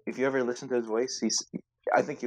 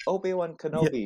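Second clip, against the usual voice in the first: robotic female voice; 6 semitones higher than usual. Retold or imitated. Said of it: "and the robot voice too".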